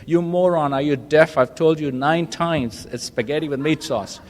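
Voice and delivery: a hammed-up exasperated wife yelling at her husband; irritated wife. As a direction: play the fed-up wife shouting at her husband. Wife snaps at deaf husband.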